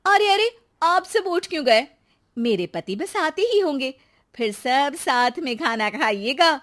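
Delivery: high, urgent innocent pleading; a wife calling after fleeing guests, mock concern. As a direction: call them back, feigning surprise.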